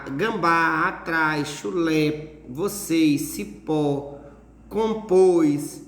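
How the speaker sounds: teacher's word list, "gambá" to "compôs", weight on every final syllable; final-syllable stress. Shown as a demonstration. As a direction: list "gambá, atrás, chulé, vocês, cipó, compôs", each with a strong last syllable. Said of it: "a última sílaba é, é, é forte".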